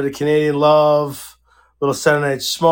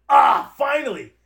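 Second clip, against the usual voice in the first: higher pitched "finally" of relief; acted relief; 7 semitones higher than usual. Telling how the blockage cleared, acted relieved exclamation. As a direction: act out getting relief at last. Relief after blowing nose, retold.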